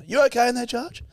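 high-pitched call to next room; acted concerned call. Scenario role-play, calling to next room.

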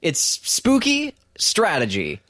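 high, bright upbeat pitch; excited plug. Real, not acted. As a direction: sell the game with excitement. Excited plug for own game.

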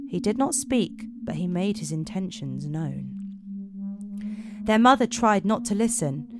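measured storytelling voice; story narration. Acted. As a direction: tell it like a dark fairy tale. Narrates Romanian fairy tale.

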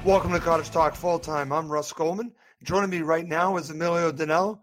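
hoarse, strained throat; talking through a sore throat. Real, not acted. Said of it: "I'm a little bit hoarse".

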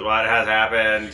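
slow, stiff robot question; a flat machine asking calmly. Acted. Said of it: "one of the robot goes".

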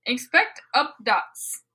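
slow mock-Swedish, vowels distorted; Swedish Chef accent. Finishing the author's note, slow mock-Swedish accent. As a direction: draw it out in a bad Swedish accent. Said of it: "in the accent of Swedish Chef".

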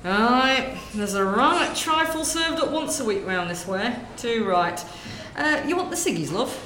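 lightly voiced gossiping northern woman, chatty; northern shop lady. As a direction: natter away like a corner-shop lady. Sketch, shopkeeper serving.

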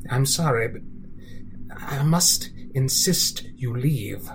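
a menacing storybook villain, slow and whispery at times; a creepy, theatrical villain narrator sliding into hushed whispers; sinister narrator. Acted. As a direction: taunt the listener like a scheming narrator. Villainous narrator taunts the listener.

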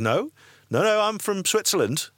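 hurried fake-Swiss protest; a hint of a flustered liar; visitor's hasty denial. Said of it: "And he goes".

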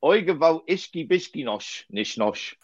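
slowed, exasperated gibberish Yiddish; made-up Yiddish outburst; mock Yiddish rant. Shown as a demonstration. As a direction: rattle off dad's fake Yiddish with a shrug. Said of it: "I've got one if you're ready for it".

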